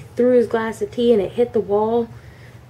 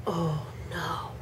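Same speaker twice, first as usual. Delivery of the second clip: hushed, much softer panicked oh no; soft dismayed oh no; 4 semitones lower, 14 dB quieter than usual. Retold or imitated. Girl realizing she broke the windshield, hushed. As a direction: breathe it out in quiet dread.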